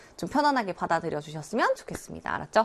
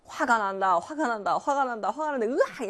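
acted irritation rising in pitch with each repeat; anger building; 3 semitones higher than usual. Teacher shows students how annoyance wells up, anger building. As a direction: let mock anger climb step by step to a small outburst. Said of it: "짜증이 올라오는 순간을".

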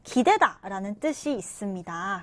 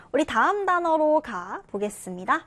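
whisper; 3 semitones higher than usual. Real, not acted. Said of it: "whispered transition".

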